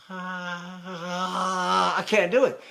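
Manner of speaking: slow breathy voice after a sigh; breath blown out, airy tone. Shown as a demonstration. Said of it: "If I blow my breath out".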